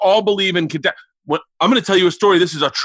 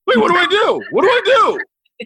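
mock panic; 13 semitones higher, faster than usual. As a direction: play the scared son begging for help. Panicked reply to dad's warning.

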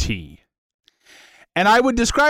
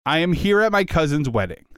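wide-eyed, dazed and amazed; tripping on drugs; 6 semitones higher than usual. Pretend. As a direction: gasp at the hallucinations. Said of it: "I am tripping balls right now".

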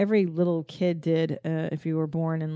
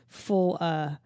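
laughing; slower than usual. Real, not acted. Breaks up laughing at the fair.

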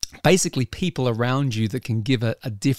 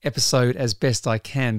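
husky voice. Real, not acted. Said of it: "a bit more of a husky voice than normal".

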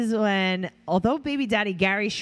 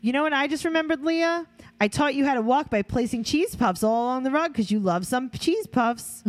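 high mock mom; 6 semitones higher than usual. Reading a mom's quote to Leah.

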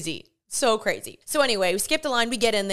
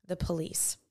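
low, very soft dramatic aside; hushed reveal; 4 semitones lower, 10 dB quieter than usual. Real, not acted. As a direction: drop it low and soft for suspense. Suspenseful reveal, then repeated.

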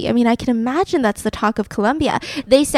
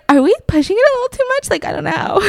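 nervous, laughing; 10 semitones higher, faster than usual. Retold or imitated. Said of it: "Tarzan's in the corner like".

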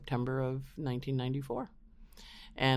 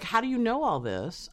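amazed; 10 semitones higher, 3 dB louder than usual. Retold or imitated. Retold amazement.

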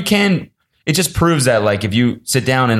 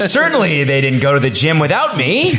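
much higher, strained voice with rage under it; hidden rage; 9 semitones higher, slower than usual. Retold or imitated. Friend imitating a vlogger hunting for his friends, with rage held under a high voice. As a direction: pretend to be calm while fuming. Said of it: "there's a rage under there".

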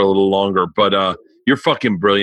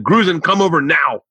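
imitating a Chinese friend's broken English, higher; imitated broken English; 5 semitones higher than usual. Friends quoting their Chinese friend, imitated broken English. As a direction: retell it in her broken English. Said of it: "speak in broken English the way she does".

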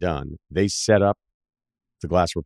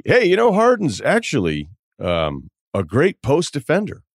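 mock announcer; 6 semitones higher than usual. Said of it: "But the".

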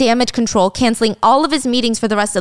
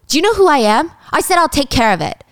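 angry outburst; 6 semitones higher than usual. Retold or imitated. Husband yelling at his wife.

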